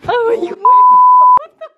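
high, drawn-out shriek through laughter; laughing shriek. Real, not acted. To her family, a laughing shriek. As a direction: yelp it out while cracking up.

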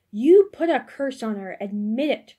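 a shoemaker's widow shrieking an accusation; shrieked. A narrator's reading. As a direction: scream the charge in her face. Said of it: "shrieked a woman".

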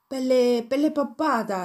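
rushed, high blurted answer; all in one breath. A narrator's reading. Cat blurting the name to the mouse, all in one breath. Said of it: "rispose il gatto tutto d'un fiato".

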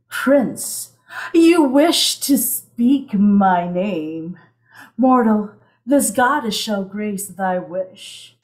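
a hint of a goddess beckoning her sailor; sultry mermaid goddess. Mermaid goddess calling to a mortal sailor, lightly voiced siren. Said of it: "a teaser from my mermaid set".

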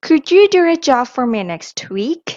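each word said slowly and loudly for copying; slow model sentence. Shown as a demonstration. Teacher models the question slowly and loudly for students to repeat. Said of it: "repeat after me".

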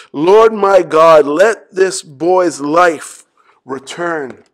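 loud, slow, pleading call; the prophet's desperate cry; crying out to God. Acted. Preacher voicing Elijah crying out to God, loud plea.

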